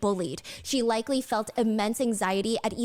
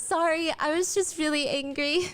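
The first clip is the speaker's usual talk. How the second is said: smiling through tears; 5 semitones higher than usual. Retold or imitated. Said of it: "turns around smiling and wipes a tear".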